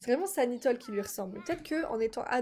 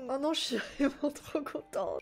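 happy tears; 3 semitones higher than usual. Real, not acted. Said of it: "Je suis trop sensible".

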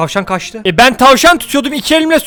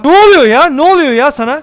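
startled shout; 3 semitones higher, 3 dB louder than usual. Real, not acted. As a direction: jump at the sudden noise. Startled outburst. (ani şaşkınlık çığlığı)

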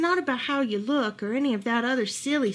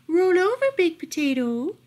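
pet command; 7 semitones higher, 4 dB louder than usual. A narrator's reading. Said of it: "or commented".

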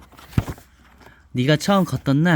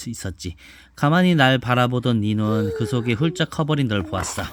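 put-on reading to a child; 2 semitones lower than usual. Mother reads picture book aloud.

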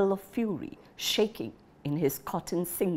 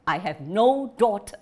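final disowning; 4 semitones higher, 5 dB louder than usual. Acted. Father disowning daughter.

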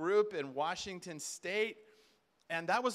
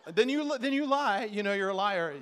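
mock accusation; 7 dB louder than usual. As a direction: call him out loudly in a Southern accent. Acted accusation by the blunt wife.

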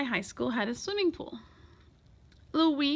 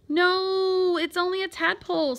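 high, insistent voice; urgent protest; 7 semitones higher, 4 dB louder than usual. A narrator's reading. Boy defending his pet to the coach, urgent protest. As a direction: break in to calm the alarm.

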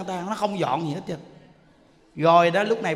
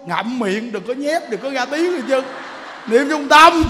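teacher's instruction; 4 semitones higher, 6 dB louder than usual. Retold or imitated. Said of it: "Như Đức nói".

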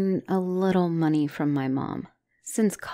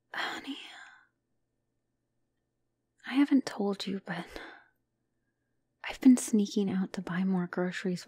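ashamed whispered confession. Acted. Confessing secret grocery trips.

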